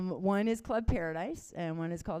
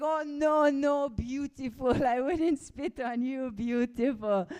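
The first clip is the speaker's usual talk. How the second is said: put-on slow, higher, sweet-talking old man; 4 semitones higher, slower than usual.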